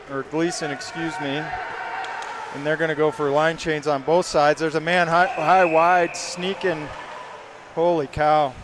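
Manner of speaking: brisk live hockey call; play-by-play. Acted. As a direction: call the action as it happens.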